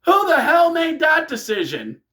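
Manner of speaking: imitated outraged commentator yell; very high, incredulous mock shout; Cole. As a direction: cry out like a stunned commentator. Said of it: "We hear Cole on commentary".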